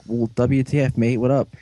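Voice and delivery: Australian "mate" talk, lightly put on; mock Australian accent. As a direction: imitate an Australian gangster, lightly. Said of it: "then you turned Australian".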